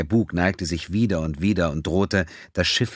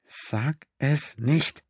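slow, higher, drawn-out urgent command; willed command; 8 semitones higher, much slower than usual. A narrator's reading. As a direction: stretch every word, pressing the thought onto him. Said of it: "und befahl ihm".

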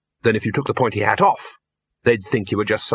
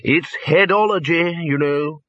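higher, self-pleased explanation; happy; 6 semitones higher, slower than usual. A narrator's reading. Lecturer passing out wire, happy. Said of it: "said the lecturer happily".

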